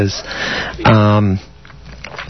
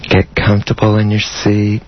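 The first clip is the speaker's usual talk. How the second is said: guided meditation; 3 semitones lower than usual. Acted. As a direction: ease them into calm with long pauses. Leads an erotic guided meditation.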